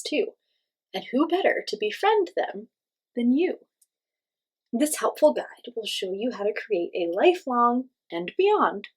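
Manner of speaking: lively, sing-song picture book reading; reading to children. Acted. Teacher reading a ghost story to kids, animated. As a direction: read it bright and animated for little listeners.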